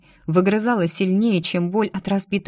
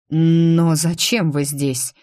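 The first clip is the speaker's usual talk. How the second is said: slow, lost question; a touch of confusion, drawn out; bewildered; much slower than usual. Acted. Maximilian asks the prince why he came, mildly bewildered. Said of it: "в голосе послышалась растерянность".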